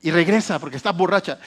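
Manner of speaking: a hint of a stern priest shooing her off; lightly voiced priest mocking her as drunk; scolding priest Eli. Pastor voicing Eli accusing Ana of being drunk, lightly scornful. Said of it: "vio y le dijo".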